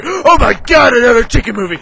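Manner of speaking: worked-up comic outrage; exasperated outburst. Acted. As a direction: gasp and burst out in exasperation. Same complaint, now more worked up.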